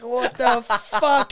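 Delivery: high-pitched disgusted disbelief, breaking into laughter; laughing mock outrage; mock offended. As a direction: imitate someone appalled by a stink. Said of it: "so offended by this smell".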